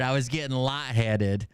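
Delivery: words through real laughter; laughing while talking. Real, not acted. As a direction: talk through the giggles. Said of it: "I was laughing so hard".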